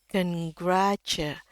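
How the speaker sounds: slow "Congratu-", lifting gra, dropping on tu; rising pitch on gra. Shown as a demonstration. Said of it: "ini agak sedikit naik ya nadanya". ("Congratu-" pelan, nada naik di gra)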